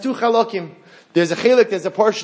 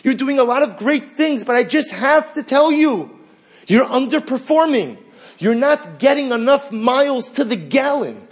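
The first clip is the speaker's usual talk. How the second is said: higher, slow, overly polite nagging voice; a mock-courteous voice of Gehenna, higher and drawn out; polite inner critic; 5 semitones higher, slower than usual. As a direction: play the sweetly insistent critic whispering in your ear. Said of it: "that piece of Gehenna says".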